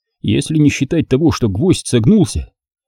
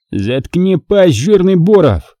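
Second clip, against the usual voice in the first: higher, slow menacing snarl; threatening; 7 semitones higher, slower than usual. Acted. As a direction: threaten the fat man. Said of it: "пригрозил маньяк".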